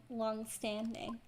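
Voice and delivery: "long-standing" slowed right down; drawn-out emphasis. Acted. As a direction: stretch out "long-standing" skeptically. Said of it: "When were we ever rivals".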